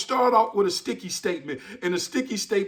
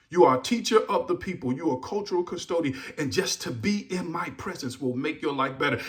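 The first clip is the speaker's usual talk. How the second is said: fond, sincere words; 3 semitones lower, 5 dB quieter than usual. Shown as a demonstration.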